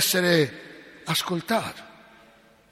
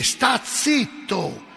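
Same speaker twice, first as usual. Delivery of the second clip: crowd hushing; 5 semitones higher, much slower than usual. Retold or imitated. Crowd hushing the blind man.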